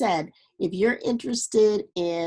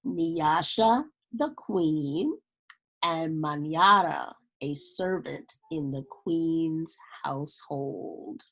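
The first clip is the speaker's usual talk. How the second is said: steady storybook reading voice; story narration. A narrator's reading. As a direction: read it like a children's picture book. Reads a picture book aloud.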